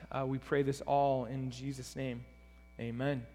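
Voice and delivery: subdued prayer, falling away to Amen; spoken prayer. Real, not acted. Pastor praying before opening the word, hushed toward the Amen.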